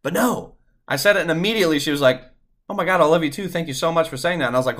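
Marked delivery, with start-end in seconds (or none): 2.7-4.5 excited relief. Retold or imitated. Girlfriend's relieved excited reply.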